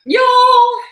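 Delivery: high loud startled cry; excited yelp. Real, not acted. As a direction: yelp as you slip. Struggling down the stirrup.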